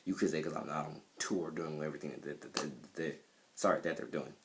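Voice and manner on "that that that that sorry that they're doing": stuttering on a repeated word; stuck on "that", stutter through it. Real, not acted. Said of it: "Sorry for my stuttering".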